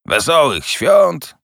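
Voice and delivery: slow, scornful repeat of the greeting; mocking echo. A narrator's reading. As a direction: throw the words back with contempt. Scrooge mocks the greeting. (szydercze powtórzenie, wolno)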